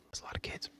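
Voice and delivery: barely audible whispered punchline; very soft, confidential tag-on; hushed aside. Pretend. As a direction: drop it right under the breath.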